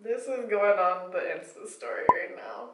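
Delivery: breathy whispered aside to the camera. Real, not acted. Reader tells viewers she will post this, whispered. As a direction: whisper it like a confession.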